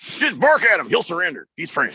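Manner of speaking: lightly voiced mock army sergeant; brief the troops like a sergeant, easing off at the end; drill sergeant. Cecil advising the dogs on a Frenchman, mock sergeant voice. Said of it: "sort of a drill sergeant sound".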